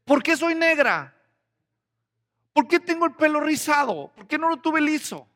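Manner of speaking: put-on high, loud, petulant complaining girl; whiny girl. Girl at the mirror complaining about her hair, high whiny voice.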